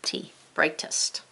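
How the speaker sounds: soft whisper, slow; whispered word. Shown as a demonstration. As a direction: breathe it out, unhurried. Teacher models word aloud.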